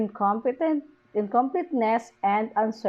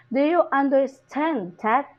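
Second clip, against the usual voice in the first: "understand" raised on its last syllable; rising intonation; 3 semitones higher than usual. Shown as a demonstration. Teacher showing where we raise intonation, rise on "understand that". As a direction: lift the pitch on "stand" in "understand". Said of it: "intonation on ten".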